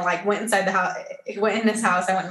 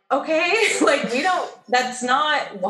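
laughing disbelief; 7 semitones higher, slower than usual. Retold or imitated. Retelling disbelief at his demand.

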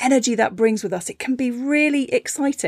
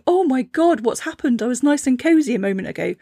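panicked seed; 3 semitones higher than usual. Acted. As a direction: fret like a seed dragged into dark soil. Seed voiced in a story.

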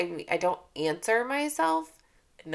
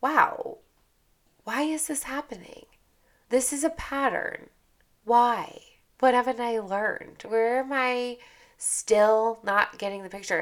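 higher, curious questioning; higher curious self-questioning; curious wonder; 3 semitones higher than usual. Shown as a demonstration. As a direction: ask it with open curiosity. Curious reframed self-talk demo.

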